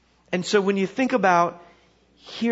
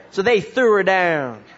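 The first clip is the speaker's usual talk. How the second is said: lightly voiced country preacher; folksy narration, falling at the end; backwoods preacher storytelling; 4 dB louder than usual. Country preacher telling of Jezebel's fall, light backwoods voice. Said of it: "he starts to tell this story".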